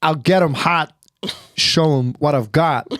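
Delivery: halting dramatic reading of lyrics; Christopher Walken. Acted. Reading a pop song on a chat show, Walken impression. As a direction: speak the lyrics in separate, deliberate chunks. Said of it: "They made him read, um, a pop song".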